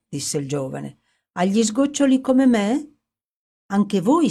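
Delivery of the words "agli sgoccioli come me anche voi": a much higher, louder rising question; young man realises the prince is ruined like him; intense astonishment. A narrator's reading. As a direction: seize on the kinship with growing excitement. Young man grasps their shared ruin.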